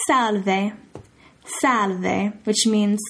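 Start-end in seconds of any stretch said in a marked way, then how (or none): 0.1-0.7 "Salve" said slowly in Italian, SAL-veh. Shown as a demonstration. Teacher modelling "Salve" for a renter greeting. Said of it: "you can say". 1.6-2.3 "Salve" said slowly in Italian, SAL-veh. Shown as a demonstration. Teacher modelling "Salve" for a renter greeting. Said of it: "you can say".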